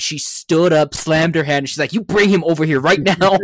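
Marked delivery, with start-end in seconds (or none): 1.9-3.4 jokingly mad. Retold or imitated. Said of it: "jokingly mad".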